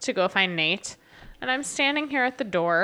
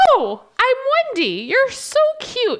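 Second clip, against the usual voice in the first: put-on drunk woman voice; 9 semitones higher, 4 dB louder than usual. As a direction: coo it like a tipsy stranger.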